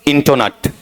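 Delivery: इंटोनट with round "to" and short "nut"; इंटोनट with an o in the middle; fourth variant. Shown as a demonstration. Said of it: "और चौथा".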